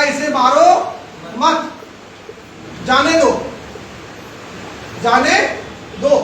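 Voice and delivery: "इसे मारो", pause, "मत", pause, "जाने दो"; pauses between phrases. Shown as a demonstration. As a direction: spell out the phrasing with long breaks. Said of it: "कहने का फर्क, शब्द वही है".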